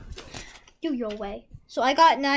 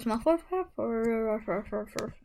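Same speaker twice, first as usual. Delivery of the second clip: whispering; 3 semitones lower, 4 dB quieter, much slower than usual. Pretend. Whispered chant for the card.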